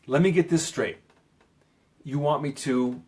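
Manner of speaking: firm, pointed clarifying line; assertive, emphatic. Shown as a demonstration. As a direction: say it with emphasis, stand your ground. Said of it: "say it with some emphasis".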